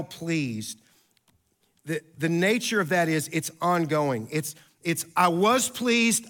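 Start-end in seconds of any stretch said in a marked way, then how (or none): 5.2-6.3 WAS punched higher, slow and deliberate; stress on WAS. Shown as a demonstration. Pastor explaining an ongoing verb, stress on "was". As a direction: lean hard on "was", stretching the phrase.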